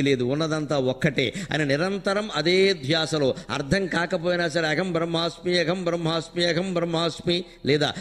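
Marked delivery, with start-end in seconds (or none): 4.7-7.4 repeated mantra. Shown as a demonstration. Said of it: "ఇలా ఏదో ఒక దాన్ని నిరంతరం అనుకుంటూ".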